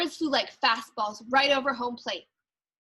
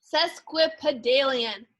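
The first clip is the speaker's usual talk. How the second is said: big word; slower than usual. Shown as a demonstration. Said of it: "look at that big one".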